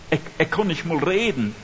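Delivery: lightly acted stutter on the first word; a mild, hesitant stammer; stuttering Moses. Moses telling God he cannot speak, lightly stuttered. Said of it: "Mose stottert".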